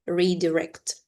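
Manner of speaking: "redirect" with weight on the second syllable, di; stress on second syllable. Shown as a demonstration. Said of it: "The stress is on the second syllable".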